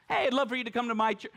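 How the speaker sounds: quick, bright laughing call; a hammed-up churchgoer inviting a friend; cheerful invitation.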